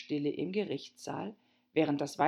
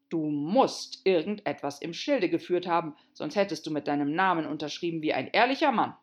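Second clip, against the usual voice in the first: pompous king voice; 2 semitones higher, 5 dB louder than usual. Acted. King lecturing.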